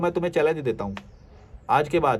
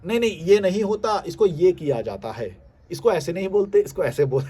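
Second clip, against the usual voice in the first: higher mocking nitpicker voice; mock pedant; 3 semitones higher than usual. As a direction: parody a smug corrector. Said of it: "लेकिन तुम आओगे".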